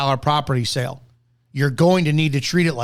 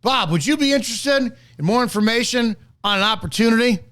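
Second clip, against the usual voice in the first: higher, clear and sure of yourself; confident pitch; 5 semitones higher than usual. Shown as a demonstration. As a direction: deliver it with full confidence, no stumbling. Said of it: "tonality, inflection of the voice, confidence in the delivery".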